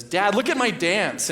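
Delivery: put-on high, slow, proud toddler asking to be watched; little girl voice. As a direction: show off a dance to dad. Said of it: "she looks at me and says".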